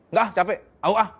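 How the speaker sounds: "Nggak" snapped short, dismissive "au ah"; curt brush-off. Shown as a demonstration. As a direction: brush him off, a touch irritated. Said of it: "laki-laki nggak bisa yang". (istri menolak ketus)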